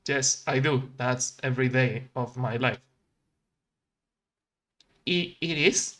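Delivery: normal talking voice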